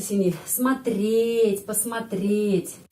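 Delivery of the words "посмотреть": посмотреть drawn out, first o said as a; teacher modelling посмотреть; slow careful Russian. Shown as a demonstration. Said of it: "O jadi A".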